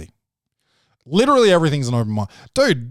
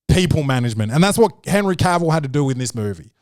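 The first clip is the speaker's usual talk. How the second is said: usual speaking voice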